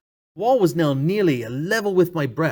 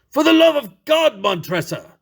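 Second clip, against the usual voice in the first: desperate plea; 8 semitones higher than usual. Acted. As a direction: beg for your life.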